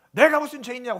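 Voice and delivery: mild acted anger; angry retort. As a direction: snap back as if wrongly accused, half-hearted. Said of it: "화를 내요". (살짝 화난 척 되받아치기)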